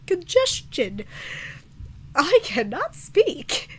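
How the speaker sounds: high, exasperated outburst at own stumbling; tongue-tied exasperation. Real, not acted. Vlogger tripping over a word, tongue-tied exasperation. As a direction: blurt it high and loud, then drag it out.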